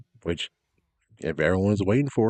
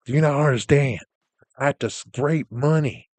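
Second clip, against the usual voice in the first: loud, higher, exasperated rant at a fool; angry rant; 4 semitones higher, 4 dB louder than usual. Retold or imitated. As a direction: yell it at the dumb jerk who doesn't get it. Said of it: "but it's like".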